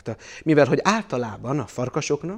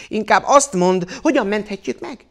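high, loud, cross demand; irritated little insect, pitched up; fuming ladybird; 9 semitones higher, 10 dB louder than usual. A narrator's reading. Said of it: "mérgelődött a katica".

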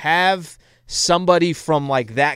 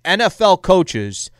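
raised, louder insistent quote; quoting a podcast guest; 3 semitones higher, 5 dB louder than usual. Retold or imitated. Retelling a guest's rant to his co-host, mock-insistent. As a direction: lay it down like an old NFL insider. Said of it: "He's like".

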